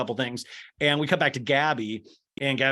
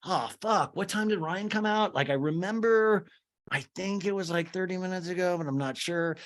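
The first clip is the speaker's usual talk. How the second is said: higher, unsure imitated doctor; mock clueless medic; haphazard doctor; 5 semitones higher than usual. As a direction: guess vaguely, groping for the memory. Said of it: "kind of haphazard about it".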